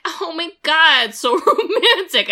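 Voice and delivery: high, slow mock-swooning gush; mock romantic sigh; swooning girlfriend. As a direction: gush like a lovestruck teen. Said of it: "she's like".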